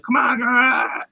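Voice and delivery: mock yell of someone charging at attackers; retold battle cry. Recapping Hank fighting ghouls, a drawn-out mock battle cry.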